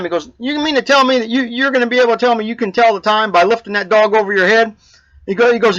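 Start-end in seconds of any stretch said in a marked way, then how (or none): 0.4-4.7 mildly incredulous, pitched a little higher; upset. Acted. Hurried man questioning the old man's dog trick, mildly upset. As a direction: act out someone fed up with being jacked around. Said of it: "got upset because this guy gets his appointment".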